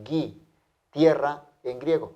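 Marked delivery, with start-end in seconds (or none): 0.0-0.5 Gi with a hard g, never ji. Shown as a demonstration. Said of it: "pronunciamos gi y no ji". (Gi con g fuerte, no ji)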